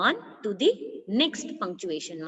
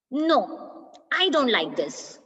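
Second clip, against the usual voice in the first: angry; 4 semitones higher than usual. Shown as a demonstration. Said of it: "Like angry feeling".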